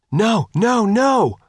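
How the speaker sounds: high, loud cry of no; shouting. A narrator's reading. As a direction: yell it out in alarm, high and loud. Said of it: "Faith shouted".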